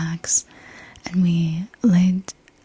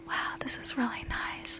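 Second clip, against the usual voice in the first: soft, higher, airy retold thought; dreamy murmur; 6 semitones higher, 9 dB quieter than usual. Waking up feeling sand on hands, dreamy murmur.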